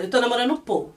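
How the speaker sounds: no enthusiasm. Retold or imitated. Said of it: "Sem empolgação nenhuma".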